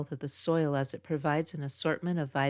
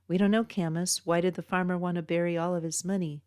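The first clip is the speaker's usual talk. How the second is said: playing along; 3 semitones higher, 3 dB louder, faster than usual. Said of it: "Max joins in with a grin".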